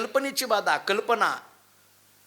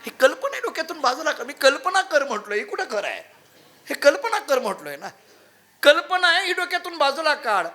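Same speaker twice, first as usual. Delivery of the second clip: emphatic guru; 6 semitones higher than usual. Acted. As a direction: shake him awake with the words. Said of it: "कळलं का बघा आता हे?".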